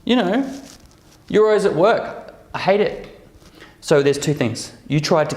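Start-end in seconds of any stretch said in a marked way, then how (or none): 0.0-3.1 higher, whiny accusing voice; counter guilt trip. Retold or imitated. Partner blaming the worker back, higher whiny voice. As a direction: turn the blame back, pitched up. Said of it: "And they're like".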